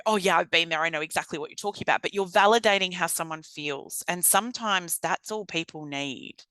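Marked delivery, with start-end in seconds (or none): 0.1-2.0 rushed, fast offhand reply; breezy dismissive. Shown as a demonstration. What not to say to a distressed person, quick and offhand. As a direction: brush it off quickly. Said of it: "You don't have to go".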